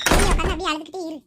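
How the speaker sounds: loud, irritated brush-off; fed up and raising the voice; exasperated shout. Acted. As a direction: snap loudly at a crying little sister. Fed-up brother leaves crying sister.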